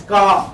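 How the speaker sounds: loud "Car" ending on an open vowel; silent final R. Shown as a demonstration. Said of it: "Remember this".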